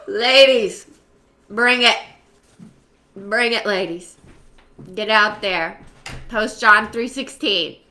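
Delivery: loud hype to the ladies; energetic loud call to action; rallying call. Real, not acted. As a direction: pump up the group. Rallying the women.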